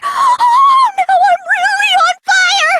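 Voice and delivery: gasp, then a slow, high swoon of delight; thrilled gasp. Acted. Killer swoons over the reveal to classmates, gasping in thrilled delight.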